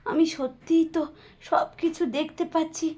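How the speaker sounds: paralysed fear. Acted. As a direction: whisper your panic, unable to move. Paralysed victim, frightened. (অবশ হয়ে ভয়ে ফিসফিস)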